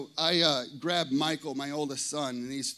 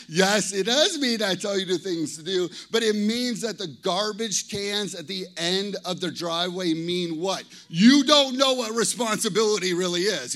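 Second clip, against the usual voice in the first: louder, a hint of a stern dad; mock lecture; 6 dB louder than usual. Pastor retelling a talk with his thirteen-year-old son, as a mildly stern dad. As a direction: play the exasperated father lightly.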